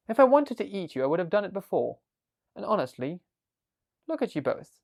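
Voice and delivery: a big dragon talking down to tiny humans, amused. Acted. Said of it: "the dragon looked at them and said".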